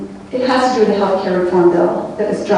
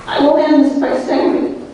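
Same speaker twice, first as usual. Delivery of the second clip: emotional; 5 semitones higher than usual. Real, not acted. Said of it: "I'm getting very emotional".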